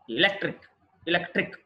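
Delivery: ఎలక్ట్రిక్ with LEC stressed; light E, strong LEC in ఎలక్ట్రిక్; penultimate stress. Shown as a demonstration. Teacher models electric, stress on the syllable before -ic. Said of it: "penultimate syllable".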